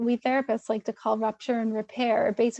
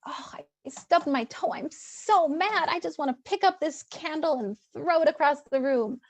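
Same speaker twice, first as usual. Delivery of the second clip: hushed start, then a higher, hammed-up flare of mock anger; mock anger over a stubbed toe; 4 semitones higher than usual. Shown as a demonstration. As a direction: act out a silly, exaggerated tantrum for the child. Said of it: "model and narrate your own anger".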